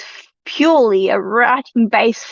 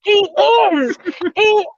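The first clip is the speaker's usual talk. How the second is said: higher, emphatic "He is!"; excited agreement; 9 semitones higher, slower than usual. Real, not acted. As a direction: cheer the insult on. Agreeing loudly with the insult.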